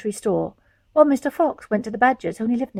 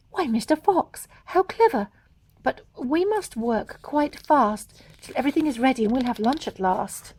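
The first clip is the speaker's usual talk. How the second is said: delighted; 2 semitones higher than usual. Acted. Missus Fox delighted.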